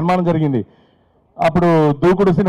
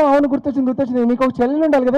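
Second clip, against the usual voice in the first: madam voice; 6 semitones higher, faster than usual. Retold or imitated. Wife remembering.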